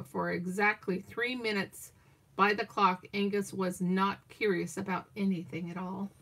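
brisk picture-book telling; story narration. Acted. Grandma finishes the duck story for her grandchild, storyteller voice. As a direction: read the ending like a bedtime story.

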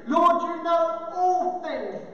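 acted drawn-out frustration; frustrated. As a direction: insist slowly, with mild exasperation. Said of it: "He's now frustrated".

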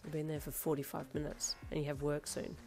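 soft, unruffled voice; calm comment. Acted. Darby in the doorway noting the time, calmly. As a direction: remind them quietly, without any pressure. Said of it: "he commented calmly".

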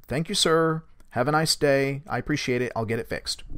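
restrained retold courtesy, trailing down; held-back politeness. Driver to deputy while holding his tongue, restrained politeness. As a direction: recite the thanks, keeping irritation in. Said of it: "kinda held his tongue".

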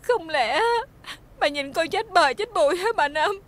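tearful, desperate pleading; crying plea. Acted. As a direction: beg her not to abandon you. Fired servant pleads, crying.

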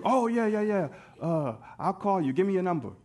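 loud, hurried-off brush-off; feigned interest. Acted. Brushing off a man just out of prison, falsely agreeable. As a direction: put on interest to get away.

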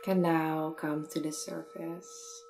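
unhurried meditation guide, long pauses; measured guiding voice, easing off at phrase ends; guided meditation. Acted. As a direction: gently lead a listener inward, phrase by phrase.

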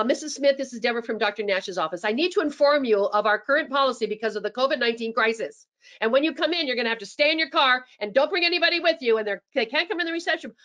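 brisk, clipped policy announcement; officious tone. Shown as a demonstration. Receptionist reading policy to a patient, officious and fast. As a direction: recite the rules like a cold office clerk. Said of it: "I want to avoid that tone of voice".

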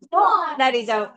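"모나리자"의 "모"를 길고 세게; 느리게, "모나리자"의 "모"에 강세; 첫음절 강세. Shown as a demonstration. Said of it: "다 같이 해보겠습니다". ("모나리자"의 "모"를 세게 끌어서)

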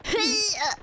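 short high-pitched Mario yelp; Mario noise. Shown as a demonstration. Showing off a Mario impression, high yelp. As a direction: do a quick Mario cry. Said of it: "show me your Mario".

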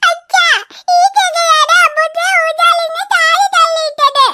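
put-on crying child. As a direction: accuse him through tears. Hurt girl accuses boy. (കുറ്റക്കാരനെ അച്ഛന് കാണിച്ച് കരയുന്ന കുട്ടി)

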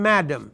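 "madam" said short as MAD-am, stress first; English madam. Shown as a demonstration. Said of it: "English we say".

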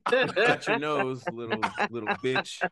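pompous. Pretend. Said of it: "Why you sound so pompous".

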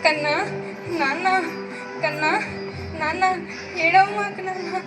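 put-on anguished lament calling the fading child; despairing wail. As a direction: cry out to God in helpless grief. Pushed away, baby fading. (నిస్సహాయంగా దేవునికి మొరపెట్టుకునే విలాపం)

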